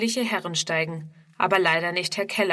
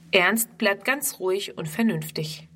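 ordinary delivery, nothing marked

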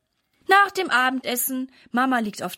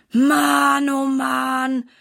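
put-on boy hanging up piles of laundry, groaning aloud; 3 semitones higher, 6 dB louder, much slower than usual.

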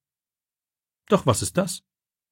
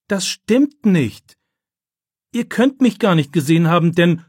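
outraged protest; 7 semitones higher, 5 dB louder than usual. A narrator's reading. Boy protests against lie.

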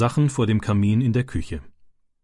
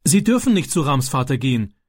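loud and brave; 4 semitones higher than usual. Acted. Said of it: "sagte er laut und mutig".

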